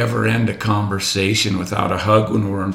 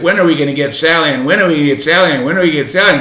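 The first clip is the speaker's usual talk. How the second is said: mock nagging; 4 semitones higher, 5 dB louder, much faster than usual. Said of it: "I don't say every visit".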